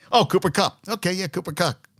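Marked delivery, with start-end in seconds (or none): 0.1-0.8 mock angry. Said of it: "you get an angry".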